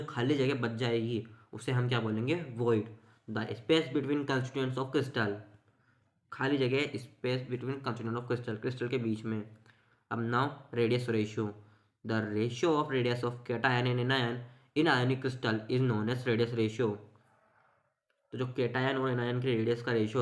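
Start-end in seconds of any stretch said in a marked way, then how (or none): 3.3-8.6 slow dictation. Shown as a demonstration. Dictates definition to students. 10.8-16.9 slow dictation. Shown as a demonstration. Dictates definition to students.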